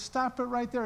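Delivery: gentle but insistent stop; firm interruption. Retold or imitated. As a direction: cut in firmly, like a gentle mentor. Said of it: "he was a gentle guy, but".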